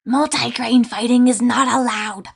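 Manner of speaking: loud creature yell at the others. Acted. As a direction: bark the rule out loud. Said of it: "he yelled at the others".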